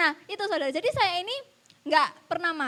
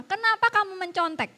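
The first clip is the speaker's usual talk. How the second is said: louder, higher stern question; pressed, insistent tone; 4 semitones higher, 7 dB louder than usual. Retold or imitated. Teacher repeats her question to pupil, retold insistent pressing. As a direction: press hard on "Kenapa kamu mencontek", without screaming. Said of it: "saya nadanya tak teken-teken".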